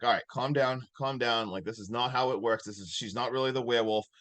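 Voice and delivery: retold calming reassurance; talking him down. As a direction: reason with someone who is panicking. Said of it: "trying to talk him down".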